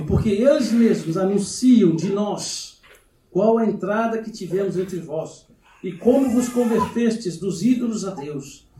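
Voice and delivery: slow, measured Bible reading; scripture reading. Real, not acted. Preacher reading Paul's verses to the church, measured scripture reading. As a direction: read the verses out slowly, phrase by phrase.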